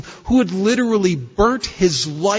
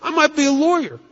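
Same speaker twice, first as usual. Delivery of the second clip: retold big plans; 7 semitones higher, faster than usual. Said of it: "I said".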